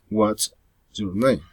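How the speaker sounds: "What's your name?" falling on "name"; falling intonation. Shown as a demonstration. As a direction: drop the pitch on "name" to close. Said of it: "Following intonation".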